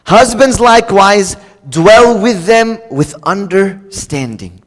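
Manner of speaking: slow, weighty "dwell with them with understanding"; solemn emphatic scripture read; slow scripture emphasis. Shown as a demonstration. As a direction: drag it out for attention. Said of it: "Let me get everyone's attention".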